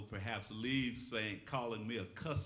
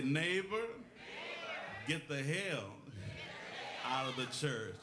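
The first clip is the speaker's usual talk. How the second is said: Christian voice; 3 semitones higher than usual. Shown as a demonstration. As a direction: say it in a churchy voice, pausing between phrases. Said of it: "say it in your Christian voice".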